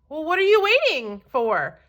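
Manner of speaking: cried out. Acted. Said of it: "cried the travelers".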